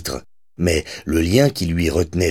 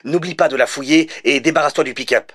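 phone voice; 8 semitones higher than usual. A narrator's reading.

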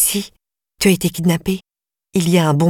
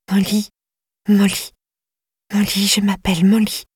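insistent repetition; 3 semitones higher than usual. A narrator's reading. Girl keeps saying her name to Flora, growing insistent. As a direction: repeat the name more urgently each time. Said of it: "a enfin retrouvé sa voix".

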